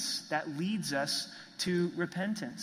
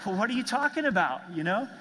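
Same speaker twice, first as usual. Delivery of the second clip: higher, louder and fast, taken aback; indignant surprise; 3 semitones higher, 4 dB louder, faster than usual. Retold or imitated. Moody answering his wife's blunt verdict, startled and fast. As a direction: blurt it out, caught off guard.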